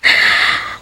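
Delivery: put-on creepy old landlady's cackle; breathy chuckle at someone's fear; eerie chuckle. Landlady interrupts frightened Joy. (nakakakilabot na tawa)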